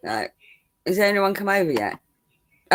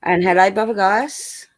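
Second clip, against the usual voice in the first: mock posh greeting with a stretched name. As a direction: put on a posh accent to say hello. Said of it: "I was putting on my posh voice".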